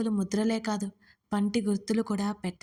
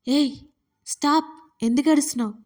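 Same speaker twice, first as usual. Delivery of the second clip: startled, higher-pitched urgent questioning; alarmed; 5 semitones higher, 3 dB louder than usual. A narrator's reading. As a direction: break in with mild alarm. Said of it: "కంగారుగా లేచి కూర్చున్నాడు అతను".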